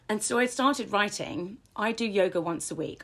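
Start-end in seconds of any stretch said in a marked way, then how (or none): 1.8-3.0 matter-of-fact, settled statement; even, assured demo of a written affirmation; firm affirmation. Shown as a demonstration. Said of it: "I'm disciplined enough".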